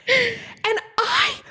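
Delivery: high, outraged disbelief; high, slow indignant shock; shocked and offended. Retold or imitated. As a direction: sound scandalised, voice jumping up. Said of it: "I was so offended".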